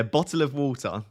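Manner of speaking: well-spoken take on Essex "bottle of water"; a milder, careful Essex accent. Shown as a demonstration. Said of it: "more well-spoken than most people from Essex".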